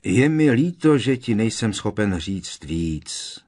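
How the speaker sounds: high start, slowing gently; sympathetic, drawn-out apology; tactful apology. A narrator's reading. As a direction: apologise with delicate regret. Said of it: "omlouval se jemnocitně Nick".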